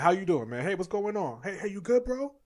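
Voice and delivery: high, light, overly casual greeting; mock cheery greeting; breezy small talk. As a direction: toss it off like a passing hello.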